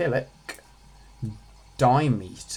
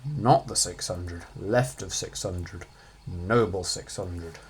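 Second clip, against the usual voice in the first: slow lowered mournful recital; solemn reading; 6 semitones lower, slower than usual. Acted. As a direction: read it slowly like a lament.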